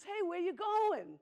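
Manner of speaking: a big hammed-up pig calling out slowly; pig's voice. Pig voiced in bedtime story.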